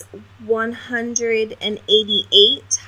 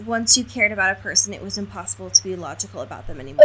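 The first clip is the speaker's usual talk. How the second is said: fast read quote; 3 dB quieter, much faster than usual. Shown as a demonstration. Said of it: "which was".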